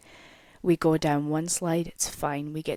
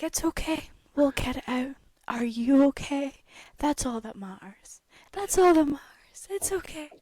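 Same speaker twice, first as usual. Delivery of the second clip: imitated easygoing reassurance, pitched up; Mario; 6 semitones higher than usual. Ride worker reassuring riders about stuck floaty, chill and mellow. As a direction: mimic a mellow guy soothing someone, barely bothered. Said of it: "He was so chill, so mellow".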